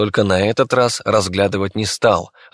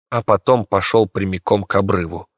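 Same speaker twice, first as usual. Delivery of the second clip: ordinary delivery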